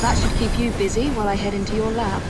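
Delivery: loud taunt. Acted. Taunting after causing a diversion.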